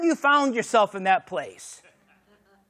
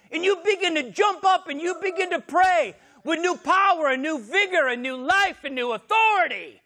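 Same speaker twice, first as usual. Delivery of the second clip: preaching shout; 5 semitones higher than usual. Real, not acted.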